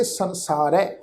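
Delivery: ਸੰਸਾਰ ਹੈ joined as "sansaarai"; ending with dulavan. Shown as a demonstration. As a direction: end ਸੰਸਾਰ ਹੈ on an "-ai" vowel. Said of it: "ਪਾਠ ਉਚਾਰਨ ਕਰਾਂਗੇ".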